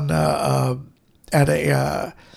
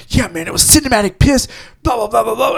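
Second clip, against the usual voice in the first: retold ranting shout; 4 semitones higher than usual. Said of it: "And he goes".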